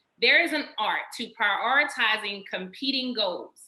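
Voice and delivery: ordinary talk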